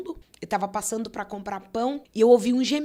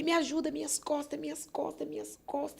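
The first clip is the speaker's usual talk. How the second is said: imitated pain; 7 semitones higher, 6 dB quieter than usual. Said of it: "gritava de dor nas costas".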